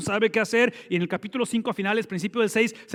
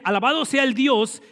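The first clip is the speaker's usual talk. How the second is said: raised, loud exclaiming praise, stress on sea; exclamation; 5 semitones higher, 5 dB louder than usual. Retold or imitated. Preacher voicing the king's exclamation, loud praise. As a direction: proclaim "Alabado sea el Dios" as an exclamation. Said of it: "Y la exclamación es esta".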